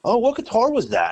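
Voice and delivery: high mock drunk voice; drunk dude. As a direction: play the drunk guy asking, high. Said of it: "this drunk dude comes up and goes".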